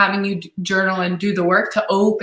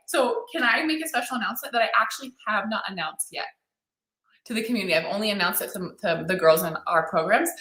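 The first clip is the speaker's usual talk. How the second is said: hushed secret; 7 dB quieter than usual. Real, not acted. Teases an unannounced secret.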